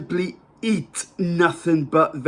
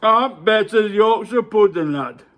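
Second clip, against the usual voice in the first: Yorkshire farmer; 5 semitones higher, 4 dB louder than usual. Acted. Back in the farmer voice.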